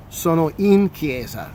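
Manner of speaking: slow, careful model of "Sono in chiesa"; slow repeat. Shown as a demonstration. Teacher repeating "Sono in chiesa" slowly for students. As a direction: spell it out slowly for learners. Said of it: "in the sense that I'm in the church".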